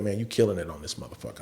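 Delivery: low, softened voice, still voiced; retold whisper. Comedian whispering praise to him on stage, retold in a hushed voice. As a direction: imitate a confidential word in the ear. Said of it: "whispered in my ear".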